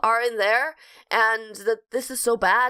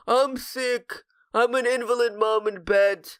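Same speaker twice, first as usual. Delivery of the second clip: mock-whiny bedridden mother, lightly voiced; whiny invalid mom. Sending up the actress's thin role, mock-whiny invalid. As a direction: parody her one-note sick-mom part. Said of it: "she's basically plays".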